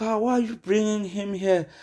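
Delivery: pitched well up, imitating a disapproving white friend; mock disapproving white friend. White friend questioning why a black guy came along, high mock voice. Friend's acted racist objection.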